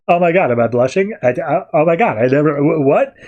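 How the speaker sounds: high, flustered stammering. Retold or imitated. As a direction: Mad Hatter flattered and flustered, high. Hatter flustered by compliment.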